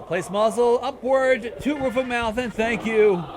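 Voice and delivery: announcement read. Acted. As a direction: read it out like an official broadcast. Reads the broadcast's instructions aloud.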